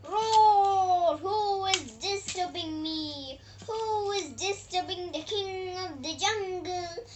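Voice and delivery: loud roar, then a mild grumpy demand; a woken lion, mildly annoyed; angry lion. Acted. Lion woken by the mouse, mock angry roar.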